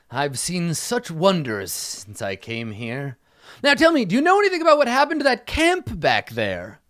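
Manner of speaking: slow marvel, then high, loud questioning; pompous knight. Acted. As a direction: wonder grandly, then quiz the travelers.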